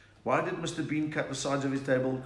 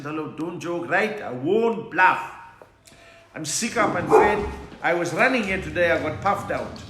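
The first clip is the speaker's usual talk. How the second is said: loud, raised-pitch Indian accent; 3 semitones higher, 8 dB louder than usual. Shown as a demonstration. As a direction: belt it out in a comic Indian accent. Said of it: "I've done Indian accent".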